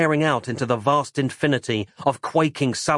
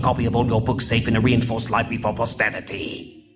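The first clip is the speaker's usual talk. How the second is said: Richard Burton voice. Acted. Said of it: "the Richard Burton voice".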